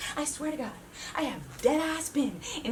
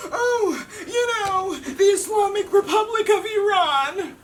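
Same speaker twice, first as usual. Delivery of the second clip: higher, louder mock-condescending uncle; 5 semitones higher, 5 dB louder than usual. Imitating the bald uncle's condescending correction at dinner. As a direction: talk down to her like the bald uncle. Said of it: "He condescendingly goes".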